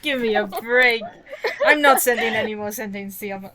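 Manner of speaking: hammed-up give-me-a-break; mock exasperated. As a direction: drag out oh brother, then laugh.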